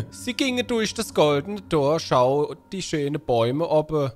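lightly performed bedtime-story reading; sing-song storybook narration; storybook read-aloud. Acted. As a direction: read it out like a children's tale.

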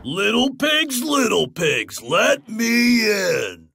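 high, loud slow wolf call. Acted. Wolf at Paul's door, loud calling shout. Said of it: "said the wolf".

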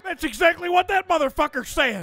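gruff barking drill sergeant. Acted. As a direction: bark like a Vietnam vet sergeant. Drill sergeant voice all along.

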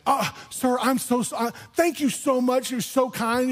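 a hint of a thrilled worker; ecstatic. Pastor imitating the worker's grateful gush, lightly done.

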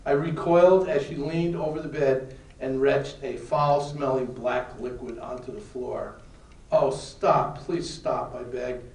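emphatic read-aloud of a novel; story narration. A narrator's reading. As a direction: read a dramatic excerpt aloud to a class. Reads book excerpt aloud.

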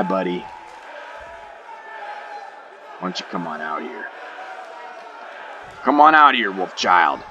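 very low, gruff wrestler promo voice; deep trash-talking wrestler. Acted. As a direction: cut a cocky heel promo. Speaker voices wrestler Chaz.

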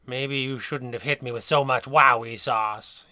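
slow, weary drugged drawl; slow, sighing inmate voice. Acted. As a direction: sigh it out, too doped to move. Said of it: "he sighed".

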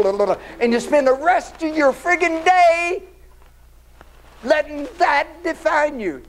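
mock inner voice berating a hothead driver; scolding himself. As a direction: tell yourself off like a fed-up parent. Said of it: "Then all of a sudden I thought".

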